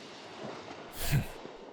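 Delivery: soft, breath-only huff of amusement; quiet dark chuckle. Acted. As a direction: let out a small, soft laugh. Predator after warning its prey.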